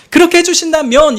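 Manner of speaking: "그렇게 해주신다면" lifted high in pitch; high pleading. Shown as a demonstration.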